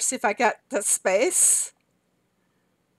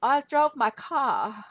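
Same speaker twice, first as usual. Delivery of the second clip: put-on Boston accent; 5 semitones higher, slower than usual. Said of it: "I love to hear him say car".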